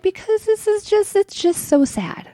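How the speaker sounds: high wailing, slowed on the last words; hammed-up weepy whine; mock crying wail. Retelling her call to her husband, high mock sob. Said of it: "And I'm like".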